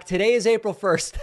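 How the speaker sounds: high, loud call to the next room; calling back. Retold or imitated. Wife calls back to husband in another room, high loud call. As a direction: call it back through the house, a touch amused. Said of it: "And I called back".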